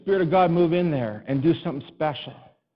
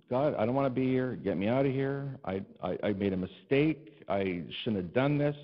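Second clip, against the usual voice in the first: weary plea; 3 dB quieter than usual. Retold or imitated. Pastor quietly begging God to get him out. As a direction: sigh it out like a regretful man. Pastor's retold prayer in dismay.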